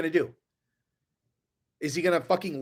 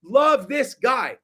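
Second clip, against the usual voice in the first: mock delighted Will Smith; 3 semitones higher, 4 dB louder, slower than usual. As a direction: stretch the final love this guy out slowly, beaming. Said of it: "he's like".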